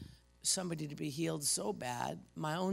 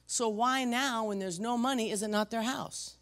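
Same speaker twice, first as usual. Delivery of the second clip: fired up; 7 semitones higher, 4 dB louder than usual. Real, not acted. Pastor challenging his congregation, louder and higher. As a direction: build the question up with fire. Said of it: "And then I got fired up".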